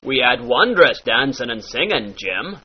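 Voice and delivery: "dancing", "singing" said as "dancin'", "singin'"; dropped G. Shown as a demonstration. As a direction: drop the G at the end of both words. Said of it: "drop that final G".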